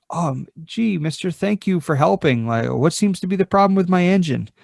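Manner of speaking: lightly voiced nervous human asking for help; timid boater. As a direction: sound a little unsure, thanking a stranger. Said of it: "I come up behind you and I say".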